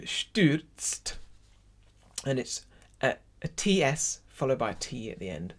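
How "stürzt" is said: "Stürzt" with a clear ü; umlaut demo. Shown as a demonstration. Teacher demonstrates a tricky word to choir, careful pronunciation. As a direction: show the ü in "Stürzt", ending t-s-t. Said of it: "it's an U".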